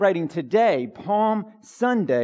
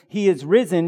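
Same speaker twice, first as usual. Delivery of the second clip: loud liturgy call; 5 dB louder than usual. Shown as a demonstration. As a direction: call it out to the congregation. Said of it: "practice so that we're ready".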